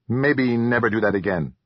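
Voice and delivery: lightly voiced little troll, wary; a small odd creature voice, a touch uneasy; mild troll warning. A narrator's reading. Troll Jocko voiced in novel.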